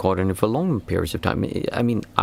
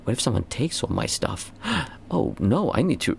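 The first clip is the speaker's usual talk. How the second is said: mock worry; 3 semitones higher than usual. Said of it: "you go like".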